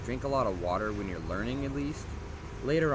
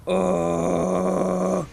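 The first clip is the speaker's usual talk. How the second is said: higher distorted growl; false fold growl; 10 semitones higher, 11 dB louder than usual. Shown as a demonstration. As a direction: overdrive the grind into distortion. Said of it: "starts to get distorted".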